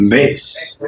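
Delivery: ground it low in the chest; low chest-voice bass. Shown as a demonstration. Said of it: "You sound like men".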